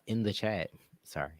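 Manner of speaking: slightly slurred tipsy talk; a little tipsy from the beer. Real, not acted. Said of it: "it's the tipsy in me".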